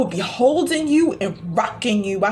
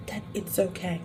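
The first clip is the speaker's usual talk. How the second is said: soft, much quieter "okay" nearly breathed; hushed reassurance; 4 semitones lower, 11 dB quieter than usual. Acted. Healer soothing Sophia through tears, hushed and soft. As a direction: let it drop to a hush.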